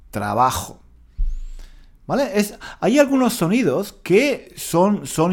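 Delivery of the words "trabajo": "Trabajo" repeated with the J as a clear throat fricative; clear Spanish J. Shown as a demonstration. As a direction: model the J in "Trabajo" for a learner. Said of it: "La J". ("Trabajo" con la jota pronunciada con claridad)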